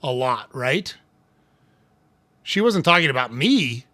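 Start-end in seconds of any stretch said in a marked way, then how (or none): 2.4-3.9 "me" gets the emphasis at the end; stress on ME. Shown as a demonstration. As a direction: lean on the final word "me". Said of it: "emphasis on a different word changes a sentence".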